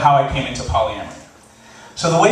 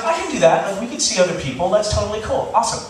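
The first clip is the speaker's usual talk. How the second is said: lightly voiced eager girlfriend, higher; chirpy agreeable partner, mildly mimicked; imitating girlfriend; 6 semitones higher, faster than usual. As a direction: partner quoted agreeing to an open relationship, a hint of higher pitch. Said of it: "she's like".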